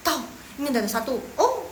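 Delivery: mock lightbulb moments; student recognising tones. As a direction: act out a learner catching on. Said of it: "dengerin orang ngomong".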